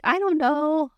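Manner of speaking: high-pitched helpless shrug; imitating unsure person. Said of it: "If like".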